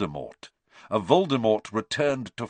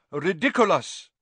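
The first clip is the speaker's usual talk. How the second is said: teacher showing the incantation, crisp; demonstrated spell; 9 semitones higher, 5 dB louder than usual. Shown as a demonstration. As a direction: model the word clearly for the class. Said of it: "After me, please".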